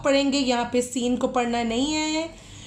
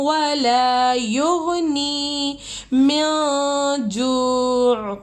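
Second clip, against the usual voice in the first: slow melodic tajweed chant; Quran recitation; much slower than usual. Acted. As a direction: draw out each verse in measured chant.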